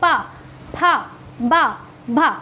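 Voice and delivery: पा, फा, बा, भा made with the lips; lip sounds. Shown as a demonstration. Teacher models the labial row, lips forming पा, फा, बा, भा. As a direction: drill पा, फा, बा, भा separately, lips meeting. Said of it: "ओष्ठ से".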